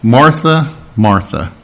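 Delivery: soft falling call of her name; acted gentle reproof; gentle, quiet. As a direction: call her tenderly, with space between. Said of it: "gently, quietly".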